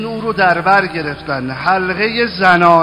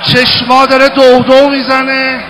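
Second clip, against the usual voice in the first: rising wail; 5 semitones higher, 7 dB louder than usual. Acted. Rising lament over Hussein.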